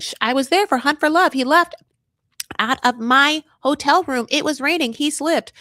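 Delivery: high, loud mimicked excuse; mock protesting. Mimicking her excuses for him.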